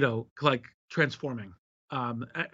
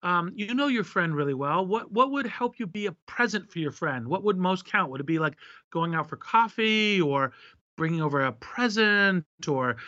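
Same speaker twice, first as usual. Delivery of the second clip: higher, lightly voiced friendly AI helper; caring chatbot voice; 5 semitones higher than usual. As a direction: gently coax the user like a kind assistant. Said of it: "Pi would say".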